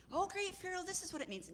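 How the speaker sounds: very high, squeaky courtier; wise man. Acted. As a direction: caricature an adviser far up in pitch. Third wise man, higher again.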